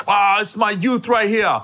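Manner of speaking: drawn-out, affectionate comic impression; Tracy Morgan. Comedian kissing friend's forehead, slow affectionate imitation. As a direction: fondly greet him, imitating another comedian. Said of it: "gives me a kiss on my forehead".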